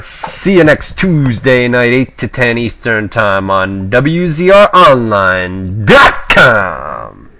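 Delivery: slow, drawn-out announcer voice; radio announcer sign-off. Acted.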